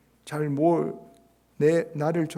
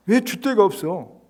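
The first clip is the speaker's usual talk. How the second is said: mock nagging; 6 semitones higher, 8 dB louder than usual. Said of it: "뭐라 합니다".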